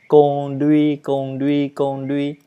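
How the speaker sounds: each "conduit" with equal weight on both syllables; "conduit" as an even, measured drill; no word stress. Shown as a demonstration. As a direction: repeat "conduit" evenly, favouring neither syllable. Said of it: "Ce n'est pas la peine".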